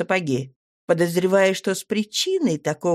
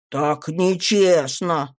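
nasty yell; much slower than usual. Acted. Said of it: "противным голосом заорал".

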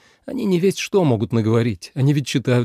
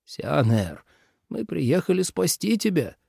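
softer, higher, pleading; pleading father; 6 semitones higher, 3 dB quieter than usual. A narrator's reading. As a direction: beg him softly to come home. (отец тихо умоляет)

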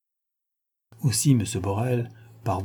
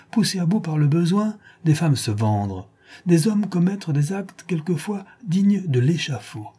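a touch more indignant, pressing each rhetorical question; redoubled indignation; 5 semitones higher than usual. Acted. Wife condemning betrayal before her husband, mildly indignant. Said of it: "avec un redoublement d'indignation".

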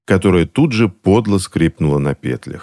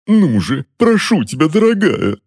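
much higher wheedling plea; much higher begging to his wife; pleading; 10 semitones higher than usual. A narrator's reading. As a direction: beg your wife sweetly through the pain. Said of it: "взмолился дядюшка".

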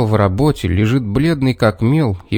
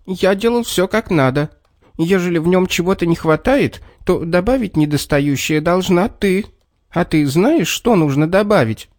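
sad answer; 6 semitones higher than usual. A narrator's reading. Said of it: "Человечек печально ответил".

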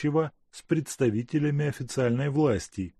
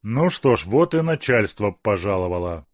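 through gritted teeth; 5 dB louder than usual. Acted. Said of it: "скрипнул зубами Бобриков".

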